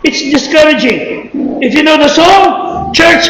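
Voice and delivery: fervent preacher rallying the church; preaching. Acted. Pastor urging the church to give thanks, preaching. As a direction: preach it out with rising fire.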